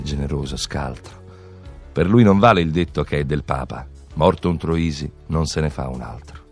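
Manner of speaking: ordinary talk, nothing marked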